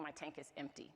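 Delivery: weary and quiet. Real, not acted. Tired mom admitting she is exhausted, softly. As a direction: let it sink, tired.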